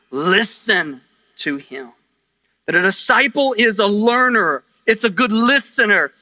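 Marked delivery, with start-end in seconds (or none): 0.1-1.9 low, slow, deliberate command; solemn, measured instruction; God the Father. Retold or imitated. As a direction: lay it down slowly in a lowered voice. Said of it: "And the Father says".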